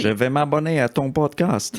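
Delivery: put-on slow, mangled French in a mild American accent. As the helpful American driver promising to subscribe, a light American accent. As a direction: play an American trying to speak French. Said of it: "T'as pris un accent".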